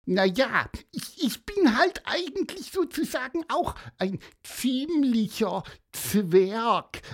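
very high, squeaky bird chirp; high piping songbird voice; little bird voice. Acted. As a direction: talk like a tiny cheeky bird. Bird character Piper speaks.

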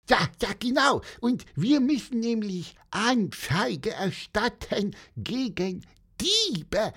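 high, chirpy little bird voice; Pieper's high bird voice. Acted. Little bird reporting a theft to policeman, high chirpy voice. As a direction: chirp it out like an excited small bird.

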